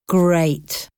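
sarcastic. Acted. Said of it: "Brian said sarcastically".

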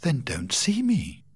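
a hint of a cool heroine; curt Rachel.

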